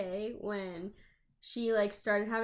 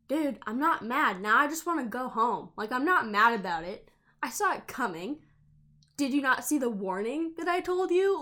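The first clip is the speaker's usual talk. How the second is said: exasperated; 3 semitones higher, 5 dB louder than usual. Retold or imitated. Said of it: "I was like".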